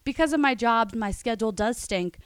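sing-song poem recital; reading a poem aloud. Pretend. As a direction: recite it like a rhyming card. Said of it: "Let's hear the poem".

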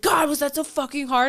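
lightly acted irritated outburst; imitated pissed-off husband. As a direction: grumble like a fed-up husband after ordering. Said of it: "He gets so pissed off".

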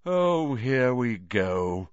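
slow, sour and resentful; bitter. Acted. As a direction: sigh it out with bitterness. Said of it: "said nearly headless Nick bitterly".

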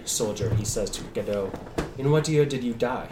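put-on measured, grave old spirit voice; ghostly figure. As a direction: speak like a weary dead soul.

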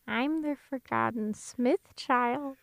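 put-on forgotten child. Forgotten Smith child begging to be let in, plaintive. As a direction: beg pitifully in slow, stretched words.

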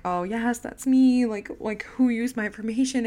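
imitating an upset, crying caller; mock tearful. Telling how she confirmed her identity to the scammer, mock tearful. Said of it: "And now I'm crying".

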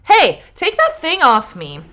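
indignant stone. Acted. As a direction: bark at the man to lift it off. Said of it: "the stone said".

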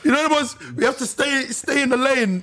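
laughing while talking; giggling through the words. Real, not acted. Laughing after saying it's hard.

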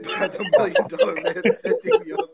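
high laughing speech; helpless real laughter; cracking up. Real, not acted. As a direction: lose it halfway through the name. Breaks up laughing while announcing topic.

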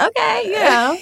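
high, dazed acted shock. To the doctor calling her a trip, stunned. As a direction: act too stunned to answer properly. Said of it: "You're just so in shock".

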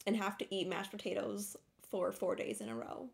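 talking with a lisp; a lisp from a bitten tongue. Real, not acted. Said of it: "she has a lisp".

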